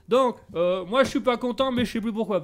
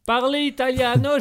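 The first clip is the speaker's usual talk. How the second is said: put-on Italian accent; 4 semitones higher, 5 dB louder than usual. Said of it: "tu fais vachement bien l'accent italien".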